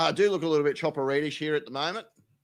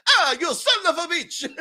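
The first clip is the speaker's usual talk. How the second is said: angry yell; 11 semitones higher, 6 dB louder than usual. Retold or imitated. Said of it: "standing at my door going".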